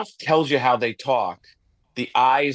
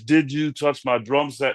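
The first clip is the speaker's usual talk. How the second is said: John C. Reilly. Acted. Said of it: "the John C. Reilly, there's".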